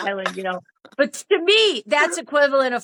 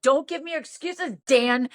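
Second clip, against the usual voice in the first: retold scolding, cutting him off; going off; 3 semitones higher than usual. Woman refusing Dan's excuses, indignant. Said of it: "I went off on him".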